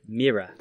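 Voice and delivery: MIRROR in two syllables ending in 'ah'; British mirror. Shown as a demonstration. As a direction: say "Mirror" as "mee-rah". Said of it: "we gotta do it all together".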